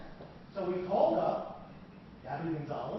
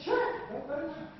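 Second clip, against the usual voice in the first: retold permission; 11 semitones higher, 4 dB louder, faster than usual. Team cheerfully permits looking, retold.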